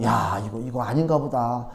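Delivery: low, soft, discouraged muttering; subdued, giving up; mild retold frustration. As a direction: mutter your doubts to yourself. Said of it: "막 화가 나더라고".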